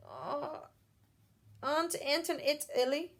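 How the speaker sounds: mumbling through an egg; mouth full. Shown as a demonstration. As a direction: speak as if the mouth is stuffed. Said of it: "She has an egg in her mouth. She can't speak".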